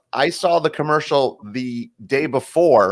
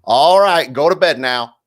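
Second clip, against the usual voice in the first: Andy Griffith; 3 semitones higher, 5 dB louder, slower than usual. Retold or imitated. Cassette voice sending a boy to bed, raised-voice impression. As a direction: order a child to bed as an old TV dad. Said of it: "it was Andy Griffith going".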